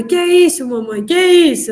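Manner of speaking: put-on high, loud repeated question, lightly childlike; insistent little child. Small daughter insisting to mother, light child imitation. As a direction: press the question like an insistent toddler.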